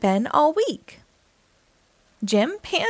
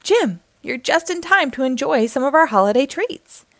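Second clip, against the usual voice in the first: croaked; 4 semitones higher than usual. Acted. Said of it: "croaked the frog".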